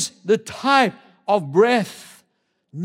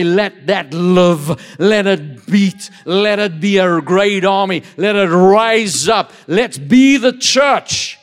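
commanding proclamation; slower than usual. Real, not acted.

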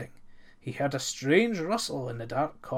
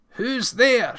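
higher, louder startled call; shouted; 8 semitones higher, 5 dB louder than usual. A narrator's reading. Miller shouts at a night-time knock, shouted. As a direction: call it out loudly. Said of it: "shouted the miller".

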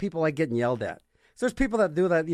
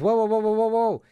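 narc employee. Retold or imitated.

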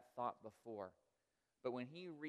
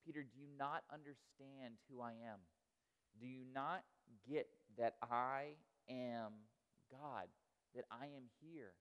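compassionate. Retold or imitated. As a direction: gently remind him who you are. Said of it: "I see it with so much compassion and love".

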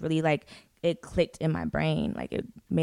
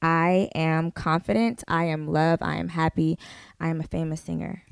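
reading affirmations; slower than usual. Shown as a demonstration. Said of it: "It says".

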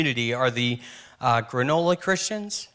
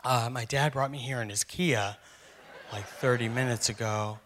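deadpan reply; 4 semitones lower, 8 dB quieter than usual. Retold or imitated. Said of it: "I was like".

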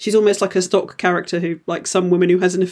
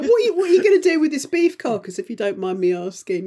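polite curious asker; 6 semitones higher than usual. Retold or imitated. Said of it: "You're like".

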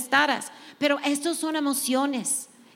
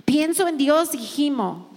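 scripture reading; 4 dB louder than usual. Acted. Preacher reading a psalm to the women, fervent and loud. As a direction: proclaim each line of the psalm to the room.

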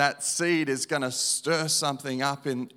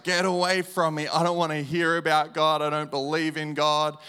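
retold scream; 4 dB louder than usual. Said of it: "I'm screaming at her".

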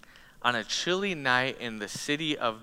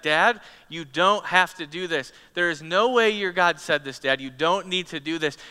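begging son; 3 semitones higher, 5 dB louder than usual. Acted. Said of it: "Isaac's begging his dad".

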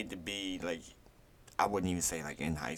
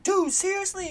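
a high put-on voice for the first character; voicing a character. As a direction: toss it up high like a cartoon guy. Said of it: "And he was like".

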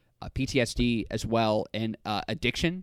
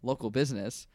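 bleeped out; 4 dB quieter than usual. Real, not acted. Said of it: "you said a lot of offensive shit".

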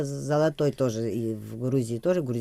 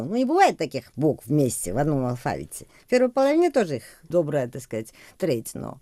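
ordinary talk, nothing marked

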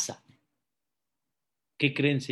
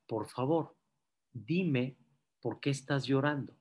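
gentle coaxing; 2 semitones lower, 5 dB quieter than usual. Acted. Kind stranger asks why he cries, gentle coaxing. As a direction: coax softly, with short pauses. Stranger coaxes weeping man.

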